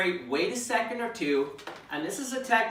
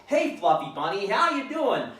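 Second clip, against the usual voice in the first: rising to a much higher "how you doing"; mock excited greeting; 4 semitones higher than usual. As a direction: gush at the puppy like an overexcited owner. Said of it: "we get really excited".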